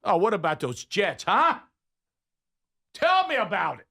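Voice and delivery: rile them up in a put-on New York accent; hammed-up New Yorker; mock New York accent. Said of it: "If you ever wanna get New Yorkers".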